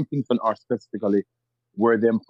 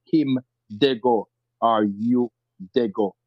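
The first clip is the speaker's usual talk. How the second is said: Western Jamaican patois; 3 semitones lower, slower than usual. Shown as a demonstration. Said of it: "Western Jamaican people would say".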